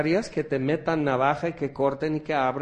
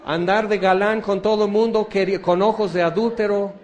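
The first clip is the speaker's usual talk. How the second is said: high, loud, pleading wail, mock-tearful; imitating a tearful plea; 7 semitones higher, 4 dB louder than usual. Repentant man begging God to free him, hammed-up tearful pleading. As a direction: beg like a man on the floor crying. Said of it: "están llorando".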